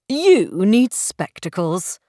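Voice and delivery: slow, matter-of-fact gentleman; said simply. Acted. Stranger telling Belle she needs glasses, slow and plain. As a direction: state it plainly and slowly, no fuss. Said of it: "he said simply".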